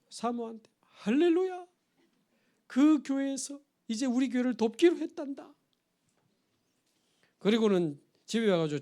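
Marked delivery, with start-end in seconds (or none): 1.0-5.5 high, bright-voiced cry of joy; joyful exclamation. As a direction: shout hallelujah to your wife overjoyed. Missionary tells wife good news. (기뻐서 외치듯)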